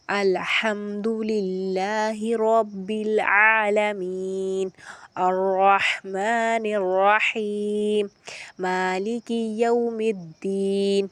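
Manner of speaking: slow recited Fatiha with long vowels; Quran recitation. Shown as a demonstration. Teacher reciting the opening verses as a model. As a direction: chant it slowly like tilawat. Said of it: "استاد پڑھ کر بتائیں".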